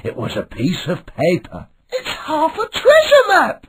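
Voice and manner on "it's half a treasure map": high, bright cartoon kid crying out; excited pirate boy voice. A narrator's reading. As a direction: shout it like an eager young pirate. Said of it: "he cried".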